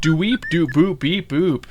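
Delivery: droid beeps. Acted. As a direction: beep and whistle like a little droid. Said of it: "it's whistles and chirps".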